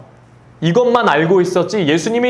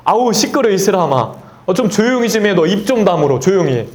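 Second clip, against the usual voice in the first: higher, mock-irritated scolding; scolding crowd; 4 semitones higher than usual. Crowd scolds the blind man Bartimaeus, mock annoyed shushing. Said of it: "사람들이 막 꾸짖어요".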